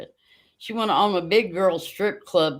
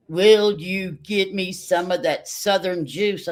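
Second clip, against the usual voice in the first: put-on slowed, spelled-out child's ask; slow repeated request; slower than usual. Son repeating himself to mom, slow and deliberate. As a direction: drag the request out patiently. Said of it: "He goes".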